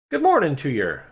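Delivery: a hint of a chirpy sprite; chirpy little voice. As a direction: pop up and chirp a greeting. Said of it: "says a chirpy little voice".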